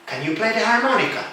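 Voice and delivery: Can you play the harmonica? with a clear question tune; asking Can you play the harmonica? with proper intonation. Shown as a demonstration. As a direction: give the harmonica question a real question melody. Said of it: "You put intonation for the question".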